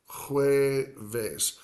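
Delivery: jueves as HWEH, VES, gliding to the end; soft entry. Shown as a demonstration. Spanish teacher summing up how Thursday sounds, soft entry. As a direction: start jueves softly on an H and separate VES. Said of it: "a soft point of entry".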